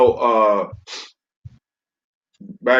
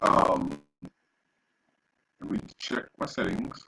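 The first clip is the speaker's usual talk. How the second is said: distorted mic. Real, not acted. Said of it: "it's, like, giving a lot of feedback".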